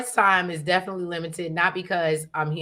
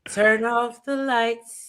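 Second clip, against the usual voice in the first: nice polite voice; 4 semitones higher, much slower than usual. Retold or imitated. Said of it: "in my nice, polite voice".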